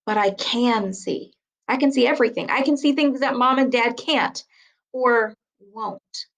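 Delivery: slow, leaning on can and see; emphasis reading. Shown as a demonstration. Teacher reading an example, with emphasis. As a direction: read it slowly, stressing can. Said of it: "you should slow down. You should say it a little louder".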